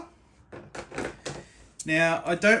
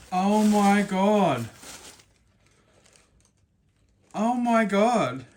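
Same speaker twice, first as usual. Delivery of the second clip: tearful; slower than usual. Real, not acted. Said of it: "I'm actually crying".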